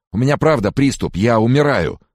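high, loud hypochondriac wail; moaning plea. A narrator's reading. Sick man insists to his friend he is dying, moaning. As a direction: insist desperately, voice pitched high. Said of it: "продолжал стонать Фрэнсис".

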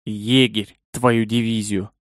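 muffled low growling curse. Acted. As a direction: growl it under your breath. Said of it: "глухо рыкнул".

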